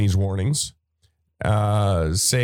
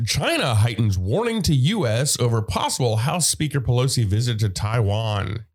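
news announcer voice. Shown as a demonstration. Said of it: "I was trying to use some kind of news announcer voice thing".

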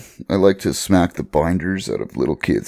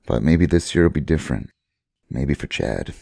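hopeful; 3 semitones lower than usual. Acted. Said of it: "so much hope in your voice there".

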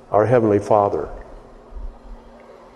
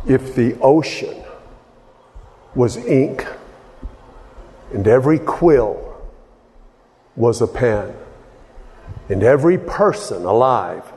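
hymn recitation. Acted. Preacher quoting a hymn found written on a wall, measured recitation. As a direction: recite phrase by phrase, leaving space between.

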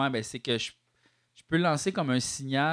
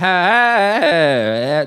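hard pitch correction; 2 semitones higher, 8 dB louder, slower than usual. Shown as a demonstration. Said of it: "le hard".

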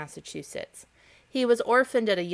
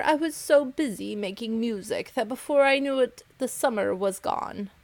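a touch higher, mild whine; whining grasshopper; 4 semitones higher than usual. Acted. The starving grasshopper excuses himself to the ants with a mild whine. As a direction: plead like a lazy bug with excuses. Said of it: "whined the grasshopper".

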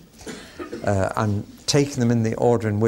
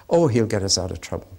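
1 mock shallow prayer; 4 semitones lower, faster than usual. Shown as a demonstration. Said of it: "not the prayer".

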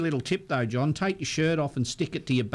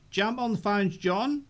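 excited announcer call; 6 semitones higher than usual. Real, not acted. Host announcing winner.

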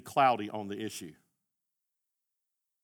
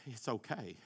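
soothing; 6 dB quieter than usual. Retold or imitated. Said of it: "She'd sit there and she'd go".

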